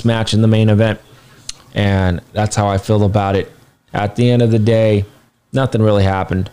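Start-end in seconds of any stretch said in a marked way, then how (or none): 5.5-6.5 through a yawn; tired, yawning while talking. Real, not acted. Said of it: "I just yawned".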